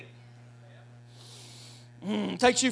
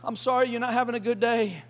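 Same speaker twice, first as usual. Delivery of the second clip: gentle concern; 2 semitones higher than usual. Retold or imitated. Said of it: "just say".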